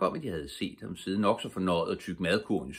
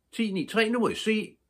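high, bright sing-song announcement; ta-da, springing the surprise; excited reveal; 5 dB louder than usual. Acted. Pibi reveals the picnic to Tommy and Annika, high and excited.

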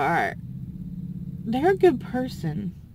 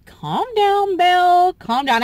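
self-soothing; calming herself down. Real, not acted. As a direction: tell yourself to calm down. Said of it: "I want to try to calm down".

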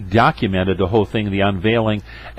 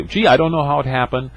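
mock addict excuse. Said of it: "many times addicts will say".

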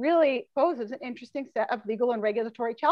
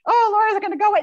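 mocking; 11 semitones higher, 8 dB louder, faster than usual. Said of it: "mock quote of common claim".

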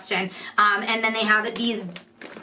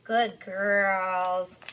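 drawn-out praise to pet dogs; doting dog-owner praise; praising the dogs; 3 semitones lower than usual. Real, not acted. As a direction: tell the dogs they did well, stretching it out. Praising her dogs mid-review.

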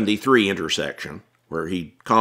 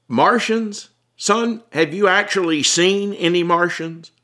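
higher, incredulous voice of a cop; skeptical cop; 10 semitones higher than usual. Acted. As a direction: scoff at the idea, half amused. Cop questions Tom skeptically.

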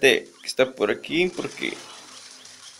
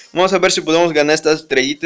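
usual speaking voice

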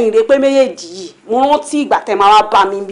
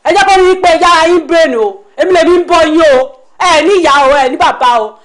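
loud, higher-pitched telling-off; heated scolding; 4 semitones higher, 5 dB louder than usual. Acted. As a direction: raise your voice and scold them.

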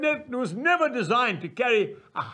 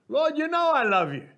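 earnest plea; 6 semitones higher than usual. Acted. Peter answers Jesus.

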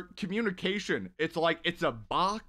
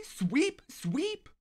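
sing-song call; 12 semitones higher than usual. Real, not acted. Calling out a viewer's name.

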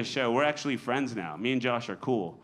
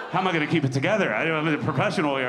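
mock panic; 3 semitones higher, 4 dB louder, much faster than usual. Panic mid-joke on seeing Josh.

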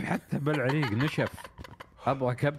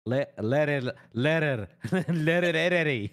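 put-on American accent gibberish. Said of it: "بلكنة أمريكية".

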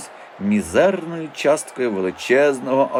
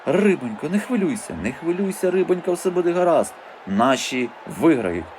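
soothing; 6 semitones higher than usual. A narrator's reading. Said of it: "раз у раз заспокоював її".

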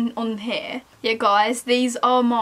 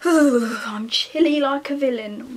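whispered joke; 3 dB louder, slower than usual. Real, not acted. Joking line.

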